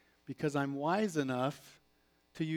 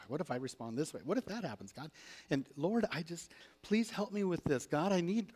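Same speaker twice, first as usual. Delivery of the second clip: anxious prayer imitation; faster than usual. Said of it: "I used to pray like this".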